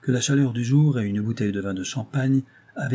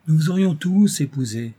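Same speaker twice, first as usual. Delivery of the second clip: raised, louder outburst; higher, emphatic cry; exclaiming; 6 semitones higher, 5 dB louder than usual. A narrator's reading. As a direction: exclaim it to the whole company. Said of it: "s'écria Saint-Chet".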